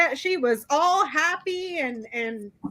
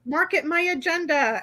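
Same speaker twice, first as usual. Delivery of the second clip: high and pleased with herself; giddy self-satisfied; 6 semitones higher than usual. Retold or imitated. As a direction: gush like a smug newcomer. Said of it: "what was she thinking?".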